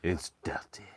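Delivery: put-on naughty French accent. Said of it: "Please do French accent while saying something naughty".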